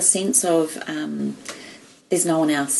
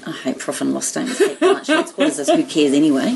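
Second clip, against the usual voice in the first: mock teen whining. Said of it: "in my fifth form accounting class going".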